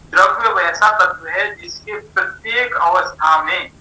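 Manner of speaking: measured teaching pace with pauses; slow, careful explaining. Real, not acted. Teacher explaining a difficult subject to students, slowly and carefully. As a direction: take a hard topic slowly, phrase by phrase. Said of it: "धीरे धीरे बोल रहा हूँ".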